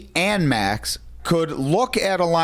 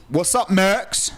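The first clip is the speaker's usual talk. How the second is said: retold greeting; 2 semitones higher, slower than usual. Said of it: "Luke said".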